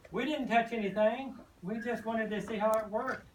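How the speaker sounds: small chicks pleading innocence; peeping chicks. Acted. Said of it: "peeped Penny".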